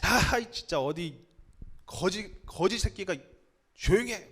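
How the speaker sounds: mildly acted scolding, broken phrasing; cursing rebuke. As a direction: scold with contempt, without shouting. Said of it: "쌍욕을 해가면서 막았다는 거예요".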